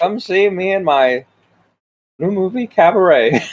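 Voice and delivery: A famous singer. Retold or imitated. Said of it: "my old man voice sounds like a famous singer".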